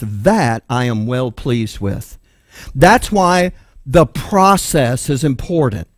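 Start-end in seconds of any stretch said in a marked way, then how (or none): 0.0-2.2 lower, softer, slow approving Father's voice; God the Father approving. Retold or imitated. Preacher voicing God's approval of the believer, low and slow. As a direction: voice the Father gently pleased, lower and unhurried. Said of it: "your Father looks at that and says".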